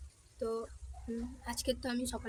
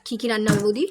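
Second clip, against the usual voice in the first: loud call across the house; 10 dB louder than usual. Real, not acted. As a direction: raise the voice to reach another room. Calling to sister-in-law across house.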